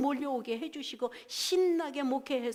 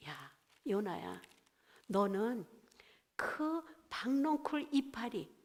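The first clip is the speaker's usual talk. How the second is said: God. Retold or imitated. God reproving Jonah over the vine, lightly voiced reproach. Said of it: "하나님이 또 뭐라고 말씀하시냐면".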